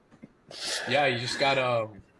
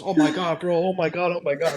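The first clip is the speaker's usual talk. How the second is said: imitating someone freaking out, higher and louder; retold panicky outburst, pitched up; mock freak-out; 5 semitones higher, 4 dB louder than usual. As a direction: play his freak-out for laughs. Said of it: "And he's freaking out".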